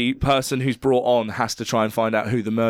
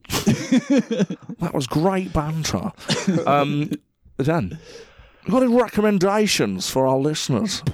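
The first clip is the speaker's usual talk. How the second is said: radio DJ voice; 3 semitones higher than usual. Retold or imitated. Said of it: "You're listening to Radio Norwich".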